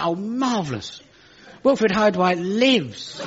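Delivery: slow, mock-charmed aside; lightly sarcastic, slowed; wry delight. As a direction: savour it like a delighted in-joke. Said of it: "And I thought".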